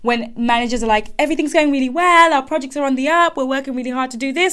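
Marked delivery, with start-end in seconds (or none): 1.2-4.5 faster, higher, upbeat spin; projected optimism. Retold or imitated. Managers telling staff all is well, mock upbeat spin. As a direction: sell the good news like a manager. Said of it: "they're projecting optimism".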